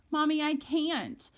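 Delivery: high, drawn-out tearful protest; child pleading as the tears start. A narrator's reading. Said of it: "The tears really started coming".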